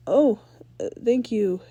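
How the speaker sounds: surprised. Acted. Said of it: "Danny said, surprised".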